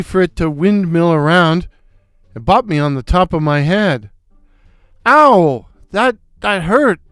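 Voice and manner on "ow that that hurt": louder, higher yelp of pain; mock cry of pain. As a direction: yelp it like you got bopped. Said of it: "I cried".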